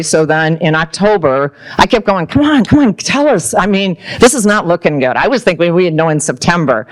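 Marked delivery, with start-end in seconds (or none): 2.3-5.2 high, urgent come on come on; impatient pleading. Retold or imitated. Waiting on the grant news, impatient and pleading. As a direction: beg them to hurry up and tell.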